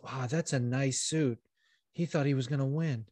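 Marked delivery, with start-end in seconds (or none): 0.0-1.4 quiet mock shade. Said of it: "He goes".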